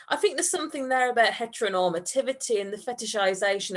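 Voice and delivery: fast, rattled-off theory; rushed jargon. Acted. Andrew rushing his excuse to Tom. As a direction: spit out the jargon quickly.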